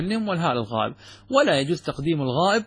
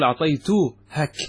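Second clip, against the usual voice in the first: slow wrong form; slower than usual. Shown as a demonstration. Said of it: "لا يجوز أن تقول".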